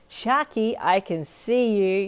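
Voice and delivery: loud, singsong call, drawn out; happy. A narrator's reading. Girl spotting her hidden friend, happy. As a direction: tease him out with a gleeful call. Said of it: "you said happily".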